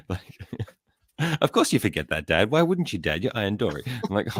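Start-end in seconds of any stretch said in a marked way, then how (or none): 1.4-3.8 sarcastic mock-incredulous questioning; mimicked sarcasm. Daughter needling forgetful dad, mimicked sarcasm. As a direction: imitate her needling her dad. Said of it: "in such a sarcastic way".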